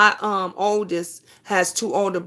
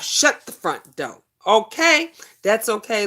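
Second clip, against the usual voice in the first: surprised; 2 semitones higher, 4 dB louder than usual. Real, not acted. Reacting to a viewer comment.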